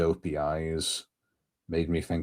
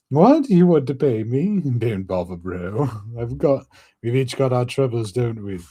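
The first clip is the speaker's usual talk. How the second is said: high cheerful skeleton voice; 6 semitones higher, 4 dB louder than usual. Acted. Voices Brook.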